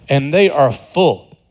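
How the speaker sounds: slowly, "they are full" drawn out; slow emphasis. Shown as a demonstration. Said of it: "repeated for emphasis".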